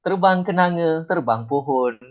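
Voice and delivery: lilting, lightly happy recital; love-poem intonation. Shown as a demonstration. Teacher showing intonation for a love poem, light romantic recital. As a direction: recite as a love verse, each phrase easing downward. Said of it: "tu untuk yang bercinta".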